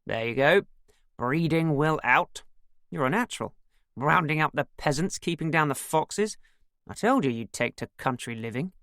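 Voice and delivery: mildly delighted teasing. A narrator's reading. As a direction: tease with pleased approval. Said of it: "Nick was delighted".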